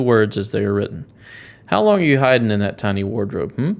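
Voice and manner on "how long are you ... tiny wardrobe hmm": interrogating in a badly faked Russian accent; Russian accent, suspicious prodding; horrible Russian accent. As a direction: question them with an amateur Russian accent. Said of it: "Sorry for my horrible accent".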